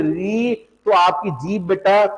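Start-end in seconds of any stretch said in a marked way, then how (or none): 0.0-0.5 री with a vibrating tongue tip that does not touch the palate; careful textbook री; pure ri demo. Shown as a demonstration. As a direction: model the pure री. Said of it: "री आप बोलोगे".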